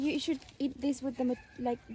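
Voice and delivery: talking while eating something sour; eating sour fruit. Real, not acted. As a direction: mouth puckered from sour fruit. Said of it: "it's so sour".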